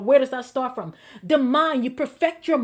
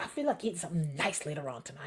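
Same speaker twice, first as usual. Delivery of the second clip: imitating Apostle; 9 semitones lower, 14 dB quieter, faster than usual. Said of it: "Apostle was like".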